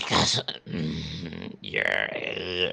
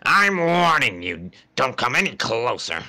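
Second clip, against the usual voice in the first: warning shout; 6 semitones higher, 3 dB louder than usual. Acted. Character warning.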